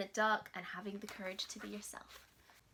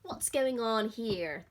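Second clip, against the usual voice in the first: mild lion growl; 4 dB louder, slower than usual. Acted. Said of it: "they growled".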